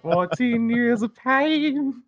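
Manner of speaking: very high, very slow epic narration; dramatic movie trailer voice. Pretend. Mocking the friends' endless karate fight, slow and hammed-up epic. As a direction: draw it out like an anime epic.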